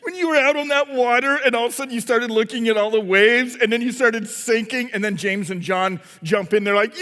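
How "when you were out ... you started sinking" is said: lightly teasing brother; mocking. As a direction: rib him with a touch of mockery. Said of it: "started kind of mocking Peter".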